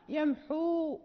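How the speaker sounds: "يمحو" ending on a long waw; waw kept at the stop. Shown as a demonstration. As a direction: stop on "يمحو" and hold the final u. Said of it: "حين نقف نثبت". (الوقف على "يمحو" بإثبات الواو)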